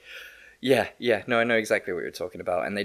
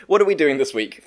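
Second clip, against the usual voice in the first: laughing; 5 semitones higher, 7 dB louder than usual. Real, not acted. Laughing, flustered.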